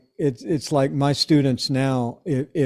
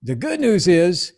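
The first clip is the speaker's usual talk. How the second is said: laughing; 7 semitones higher than usual. Retold or imitated. Punchline of Jocko's phone call.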